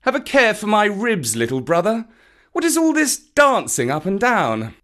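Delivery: high, lilting panther scolding playfully; aloud to the boy. A narrator's reading. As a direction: call out a light reproach. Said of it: "And then aloud to Mowgli".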